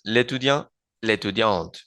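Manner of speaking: l'étudiant as one word, no vowel before étudiant; l'étudiante with the final T sounded; elision demo. Shown as a demonstration. Teacher showing elision in l'étudiant and l'étudiante. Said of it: "Y digo entonces".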